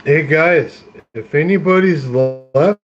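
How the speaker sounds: talking through hiccups; hiccuping between words. Real, not acted. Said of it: "excuse me for the hiccups".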